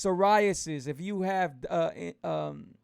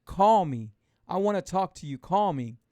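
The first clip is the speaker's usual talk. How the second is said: loud call; 5 dB louder than usual. Retold or imitated. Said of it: "the minute I say".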